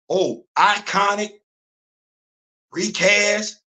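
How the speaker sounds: slow, mock sweet talk. Studio sweet-talking fans about a recast, mock sweet. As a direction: draw it out like mock flattery. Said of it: "Talking sweet in your ear".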